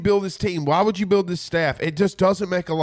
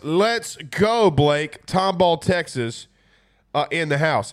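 Carter voice; slower than usual. Retold or imitated. Reading a fan's shout-out in Carter's voice, lightly mimicked. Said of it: "in my Carter voice".

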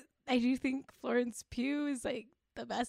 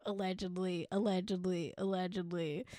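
softer, lower, pointed allegedly repeated; mock legal hedge; 3 semitones lower, 5 dB quieter than usual. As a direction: drop the voice and hedge slyly, allegedly.

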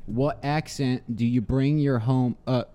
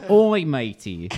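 slow Australian "Oi, matey" a little louder; Australian accent; 4 dB louder, slower than usual. Shown as a demonstration. Repeating the card's Australian quote to friends. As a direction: lean into the Aussie "Oi, matey". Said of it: "in quotes".

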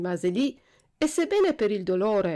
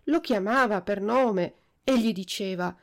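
plain reading voice

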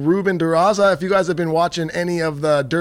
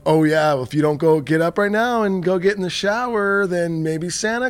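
mock mom coaxing; 4 semitones higher than usual. Wife coaxing son, retold.

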